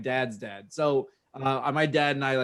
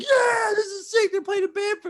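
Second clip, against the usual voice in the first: cheering fans; 4 dB louder than usual. Retold or imitated. Wrestling fans cheering at a funeral parade, mock cheering. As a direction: whoop like oblivious parade fans. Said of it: "like, cheering for the par".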